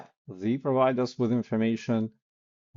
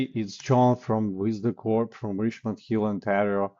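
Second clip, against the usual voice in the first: wrong way, too wordy; 3 dB louder than usual. Shown as a demonstration. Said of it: "you don't say".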